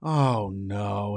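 dismayed Josh. Retold or imitated. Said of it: "Josh just pretty much says".

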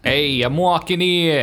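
put-on New York accent. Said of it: "you do a good New York accent".

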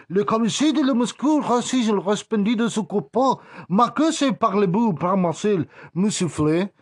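high, loud fake French gibberish; mock French. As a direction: ham up a French cop. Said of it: "y dice".

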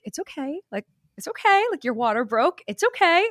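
reassuring mom. Retold or imitated. Mom reassures panicking daughter.

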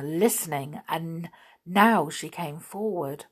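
plain reading voice

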